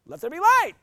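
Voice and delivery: high, loud grand proclamation; booming God voice. Retold or imitated. God creating the world, in a grand booming voice. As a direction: proclaim it like a showy deity. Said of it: "Was that like".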